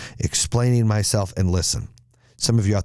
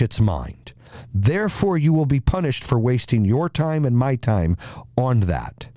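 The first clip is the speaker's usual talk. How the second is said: stern rebuke. Acted. Lion king telling the tiger why he is punished, stern. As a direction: hand down the verdict with mounting exasperation.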